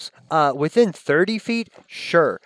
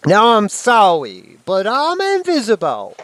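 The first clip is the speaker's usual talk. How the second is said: smug creature voice; 7 semitones higher, 8 dB louder than usual. Acted. Invisible creature taunts.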